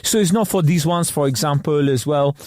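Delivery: put-on French-accented English with Cockney in it; French expert's accent. Host imitating French expert on TV, French accent. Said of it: "French expert that comes on".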